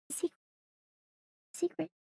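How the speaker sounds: a soft secret hush; quiet. Shown as a demonstration. Owner demonstrates a quiet secret for the dog, hushed. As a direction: say secret softly like a hidden treasure. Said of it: "Can you say it quiet?".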